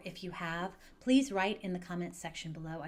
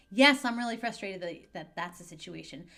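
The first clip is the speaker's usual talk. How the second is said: put-on upset kid; 8 dB louder than usual. Teen yelling back at a parent, frustrated and loud. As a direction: blurt it out like a fed-up teenager.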